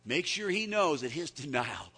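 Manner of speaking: rising sermon climax; impassioned preaching. Real, not acted. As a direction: preach it at full force.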